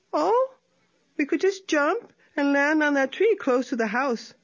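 light, quick sly coaxing; lightly voiced sly opossum. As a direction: lure him in brightly. Tlacuache voiced.

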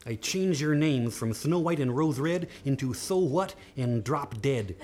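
lightly voiced cross dwarf laying a curse; angry dwarf. Dwarf cursing the girls over his ruined beard, mildly hammed-up anger. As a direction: start indignant, sink into a grim pronouncement.

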